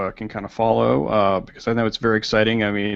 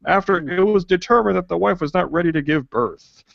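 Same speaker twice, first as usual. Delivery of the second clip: newsreader voice; 4 semitones higher than usual. Pretend. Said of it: "I will get my newsreader voice out".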